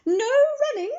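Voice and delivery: high, loud reminder; calling after. A narrator's reading. Miss Merriweather calls after running McBee, high and loud. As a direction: shout the rule after him. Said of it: "called after him".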